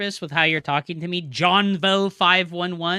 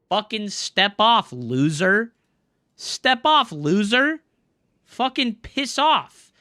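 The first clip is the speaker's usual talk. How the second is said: furious shout; 5 dB louder, slower than usual. Real, not acted. Streamer yelling at a troll in chat, furious shout. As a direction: tell him to get lost, full volume.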